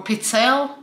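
pizzelle ending on the L; pronunciation variant. Shown as a demonstration. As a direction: say pizzelle as "pit-SELL". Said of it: "however you pronounce it".

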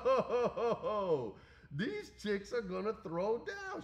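loud, high, drawn-out whoop; imitating hyped crowd. Crowd reacting to two wrestlers squaring off, high excited holler. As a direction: holler it like stunned fans.

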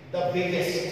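each word of the example sentence spaced out with long pauses; slow dictation. Shown as a demonstration. Teacher dictating an example sentence to students, slowly. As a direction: dictate it word by word for the class to write down. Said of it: "एक sentence है".

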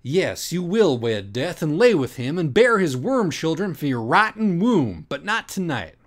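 high, loud and slow doom-laden proclamation; ominous prophecy. Acted. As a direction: pronounce her fate like a mad prophet. Doctor's dramatic ominous speech.

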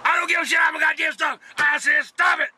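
angry shout. Acted. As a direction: yell over the noise of the road, fast. Yelling at passenger while driving.

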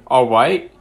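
put-on "All right" sounding like a child; accidental kid voice on "All right"; childish voice. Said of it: "That just sounds child".

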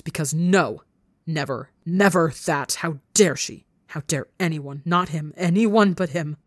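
rising furious shout; furious outburst. Acted. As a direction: lash out in fury.

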